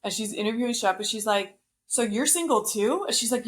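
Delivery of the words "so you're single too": higher, blunt mock interviewer question; lightly imitating a blunt host, pitched up. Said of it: "but she's so blunt".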